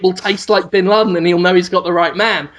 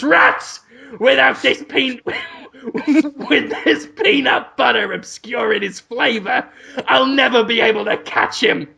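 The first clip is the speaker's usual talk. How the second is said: mock frustrated shout; 3 semitones higher than usual. The hero yells at a passerby in hammed-up frustration. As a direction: shout it in a stranger's face, half laughing. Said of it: "just shouts in his face".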